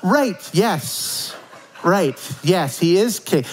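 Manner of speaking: catching up, half amused; dawning realization. Retold or imitated. Mocking own brain realizing Charles is already king. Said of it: "this is literally my brain".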